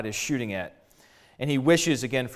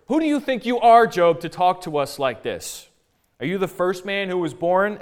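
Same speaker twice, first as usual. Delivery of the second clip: raised, challenging question; indignant rebuke; 3 semitones higher, 4 dB louder than usual. Retold or imitated. Eliphaz puts Job in his place, indignant rebuke.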